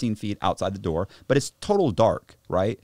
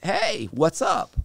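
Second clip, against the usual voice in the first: slow, higher-pitched, expectant hello; drawn-out friendly greeting; 6 semitones higher, much slower than usual. Retold or imitated. Greeting the woman he expects from the car, drawn-out and friendly. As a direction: stretch out a hopeful greeting.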